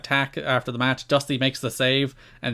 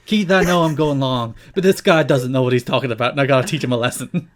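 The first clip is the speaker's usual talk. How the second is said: lightly voiced Dusty talking to camera; a hint of Dusty Rhodes addressing the director; Dusty to the truck; 3 dB louder than usual. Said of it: "he's like".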